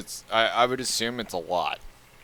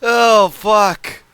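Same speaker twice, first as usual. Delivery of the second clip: much higher, laughing through the words; cracking up, can't hold it together; real laughter; 9 semitones higher, 6 dB louder than usual. Real, not acted. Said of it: "I can't keep a fucking straight face saying that".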